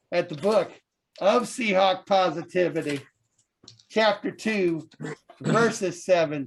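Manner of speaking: fiery TV preacher sermon. Acted. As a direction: preach to the congregation, building up. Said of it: "we have the Reverend Moses".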